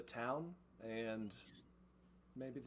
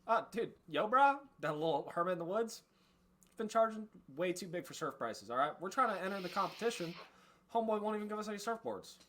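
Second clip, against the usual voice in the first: higher, laid-back surfer dude voice; surfer bro bandit; 9 semitones higher, 5 dB louder, faster than usual. Acted. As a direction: play a chill surfer bandit griping about prices.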